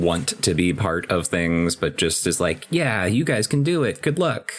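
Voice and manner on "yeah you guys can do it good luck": higher-pitched timid guy act; super timid. Acted. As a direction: voice a meek hanger-back, pitched up high. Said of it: "super timid".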